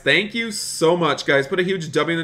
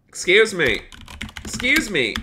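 higher-pitched mock-indignant challenge; indignant confronting; 6 semitones higher than usual. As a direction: call out an intruder, playfully put out. Confronting intruder at food truck.

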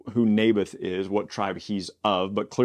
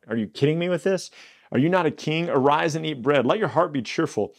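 scolding, much higher disbelief; exasperated wife; 6 semitones higher than usual. Retold or imitated. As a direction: snap him out of his sulking. Jezebel scolds her sulking husband.

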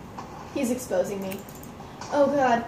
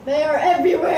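panicked cry; 5 semitones higher, 4 dB louder, faster than usual. Real, not acted. Chased by withers.

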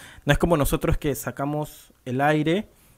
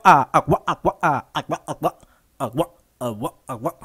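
agua chopped like a scratched record; vocal scratch; 4 dB louder than usual. Shown as a demonstration. Beatbox teacher demos vocal scratch for students, stuttering record sound. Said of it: "si yo pongo mi voz".

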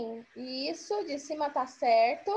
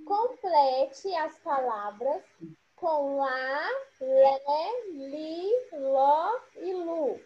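slow syllable drill; much slower than usual. Shown as a demonstration. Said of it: "Tá falando assim, ó".

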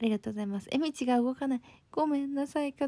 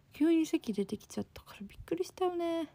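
hushed whisper, pitched up; 6 semitones higher than usual. Real, not acted. Streamer whispers to chat after nearly letting a secret slip, hushed.

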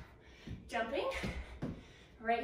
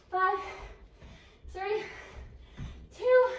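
higher and louder shouted final count; loud countdown; 8 semitones higher, 5 dB louder, slower than usual. Real, not acted. Coach to class, the last count builds to a shout. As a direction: shout them to the finish line.

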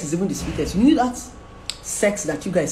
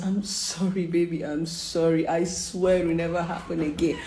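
retold tearful apology. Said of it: "I was crying".

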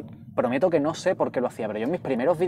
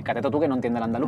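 quoted Andalusian slogan; 3 semitones lower, faster than usual. Retold or imitated. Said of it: "la pintada esta tan famosa".

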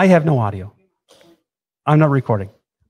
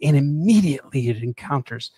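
hushed whisper. Acted. Explaining wiper blades in a hush.

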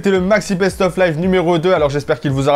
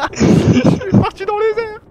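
excited; 10 semitones higher than usual. Real, not acted. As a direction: marvel at reaching space. Truck launched into space.

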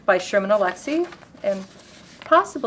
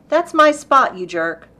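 raised, louder burst falling on the insult; angry stranger; 5 semitones higher, 7 dB louder than usual. A narrator's reading. Displaced stranger confronts driver over parking spot, acted angry outburst. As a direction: burst out indignantly, as read in a poem. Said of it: "His rage surprised me".

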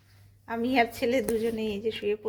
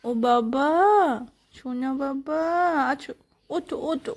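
tender, cooing wake-up call; affectionate coaxing; 2 semitones higher than usual. Shown as a demonstration. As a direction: gently coax a sleepy child up. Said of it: "আদর করে উঠাবো?". (আদর করে ডাকা)

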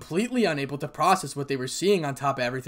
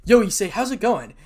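loud, higher casual hail; hearty greeting; 7 semitones higher, 8 dB louder than usual. Acted. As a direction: call out to your buddy. Friend greets Issei at school.

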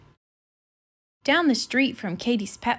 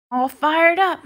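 eager shout; 6 semitones higher, 6 dB louder, slower than usual. A narrator's reading. Marshall arriving, calling out.

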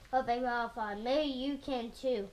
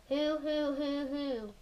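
lightly imitated owl hoots, fading at the end; owl hooting; 3 dB quieter than usual. Reader showing Mister Brown's owl sound, light hooting. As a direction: hoot gently like an owl. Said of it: "He can sound like an owl".

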